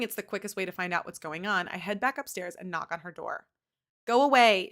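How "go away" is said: 1 crying. A narrator's reading. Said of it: "she cries".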